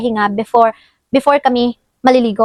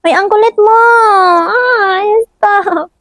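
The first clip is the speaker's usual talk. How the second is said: high squealing giggle, telling him stop; laughing protest; 10 semitones higher, 4 dB louder, much slower than usual. Real, not acted. Child tickling, mother protests.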